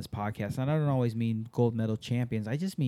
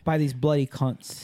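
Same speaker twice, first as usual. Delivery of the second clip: mock Aussie accent. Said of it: "an Aussie accent".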